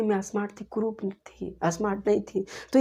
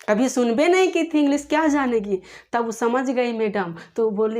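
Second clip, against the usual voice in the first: ordinary delivery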